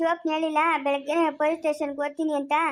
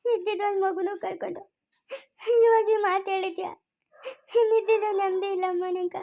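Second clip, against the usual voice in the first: sobbing between phrases; weeping lament; tearful grieving. Acted. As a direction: grieve aloud for a lost child, breaking off to sob. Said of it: "ಯಾಕ್ ಅಳ್ತೀಯ?".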